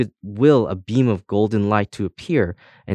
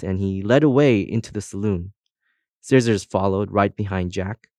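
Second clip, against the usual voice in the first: ordinary delivery, nothing marked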